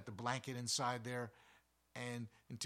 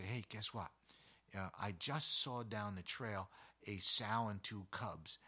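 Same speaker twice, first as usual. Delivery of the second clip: nice little voice; 2 semitones lower than usual. Shown as a demonstration. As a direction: share the news kindly and unhurried. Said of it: "in this nice little voice".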